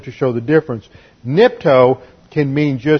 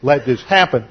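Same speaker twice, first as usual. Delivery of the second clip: arrogant refusal. Retold or imitated. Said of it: "he's obviously being arrogant".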